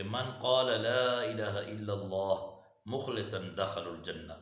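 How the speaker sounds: slow, drawn-out hadith recitation; measured, reverent-style Arabic quoting. Real, not acted. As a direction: stretch the long vowels as you recite.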